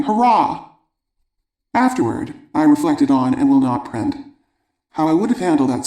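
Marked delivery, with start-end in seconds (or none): 0.0-0.7 high, joyful hurrah; gleeful little celebration; triumphant cheer. A narrator's reading. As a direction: cheer for your own success. Cheer closing her celebration.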